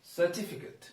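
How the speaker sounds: 'certificate' ending in a short 'kit'; correct pronunciation. Shown as a demonstration. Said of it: "It is actually".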